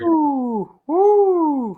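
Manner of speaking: high, whooping woo; excited cheer. Real, not acted. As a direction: cheer the play like a fan. Co-host cheering a big play.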